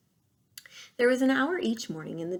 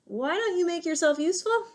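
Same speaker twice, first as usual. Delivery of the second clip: a hint of a sly, pushy fox; 3 semitones higher, 6 dB louder than usual. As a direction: lean in and bargain. Fox bargaining with robot.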